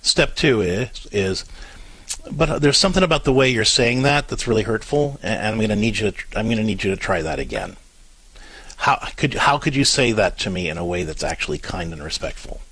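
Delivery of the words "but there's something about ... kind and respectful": lightly acted parent, calmly correcting; a low-key, patient request that falls away at the end; gentle but firm. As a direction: gently hold the line with a child. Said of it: "gentle but firm way".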